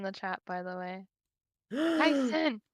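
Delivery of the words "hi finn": bright high call-out; excited greeting. Real, not acted. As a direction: call out to a friend. Greeting a viewer in chat.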